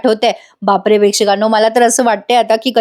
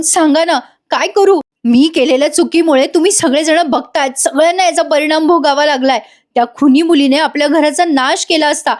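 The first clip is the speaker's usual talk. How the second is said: retold anguished shout; 4 semitones higher than usual. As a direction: imitate a desperate man crying out. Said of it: "Ashwin ओरडून म्हणतो". (नाटकी, चढ्या सुरात हताश ओरडणे)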